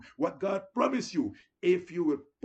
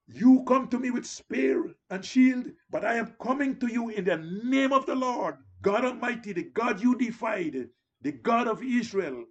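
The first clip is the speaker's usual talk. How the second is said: bold declaration; 5 semitones higher than usual. Retold or imitated. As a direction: call it out like David facing Goliath. David defies the giant.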